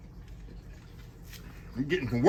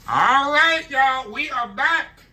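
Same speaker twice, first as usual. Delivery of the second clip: excited high greeting; 11 semitones higher, 5 dB louder, slower than usual. Real, not acted. Greeting viewers on returning.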